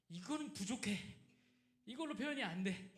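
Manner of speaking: frustrated prayer. Retold or imitated. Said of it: "기도하려고 그러면".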